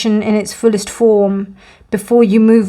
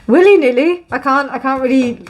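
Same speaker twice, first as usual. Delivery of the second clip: amused surprise; 3 semitones higher than usual. Real, not acted. Tarot reader laughs at her own phrase "willy-nilly". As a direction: catch yourself on the silly word. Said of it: "I can't just be willy-nilly about it".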